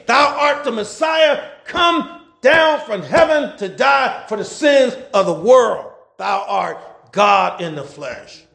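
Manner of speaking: slow, rising preacher proclamation; slow fervent preaching; preaching at full force. Acted. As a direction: build the declaration slowly. Preacher paraphrases Christ's meaning.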